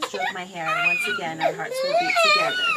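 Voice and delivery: loud, high sobbing through the words; real tears breaking through every word; crying. Real, not acted. Mother sobbing while reading scripture to her son.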